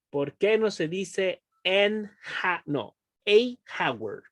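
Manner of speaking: slowly mispronouncing a hour; deliberate slip. Shown as a demonstration. Teacher slowly voicing a student's wrong question. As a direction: stretch out a hour as a mistake. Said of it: "Lo dije mal".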